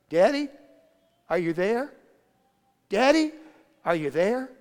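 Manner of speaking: put-on high, loud little-girl call; little girl shouting. Little girl on a slide calling to daddy, high loud shout. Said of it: "with the loudest, littlest voice I have ever heard, she shouted".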